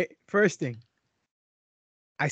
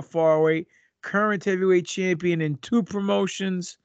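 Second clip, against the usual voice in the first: wrestling promo. Acted. Wrestling-style self introduction.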